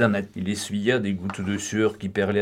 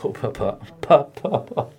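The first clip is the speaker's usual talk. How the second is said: tearful cry for his father; the boy crying for his kidnapped father, sobbing; bursting into sobs; 3 semitones higher than usual. A narrator's reading. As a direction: break down and call for papa. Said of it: "éclata en sanglots".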